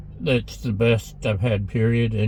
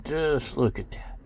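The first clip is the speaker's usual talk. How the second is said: whispering; 3 semitones higher, 4 dB quieter than usual. Real, not acted. Admiring food up close.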